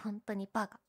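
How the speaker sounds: normal talking voice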